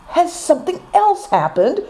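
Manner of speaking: high, breathless alarmed question; gasping. A narrator's reading. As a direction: ask it out of breath with worry.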